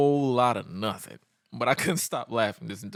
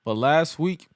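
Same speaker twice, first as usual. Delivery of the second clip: most boring tone; 3 semitones higher, 3 dB louder than usual. Retold or imitated. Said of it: "I'm gonna say this in the most boring tone ever".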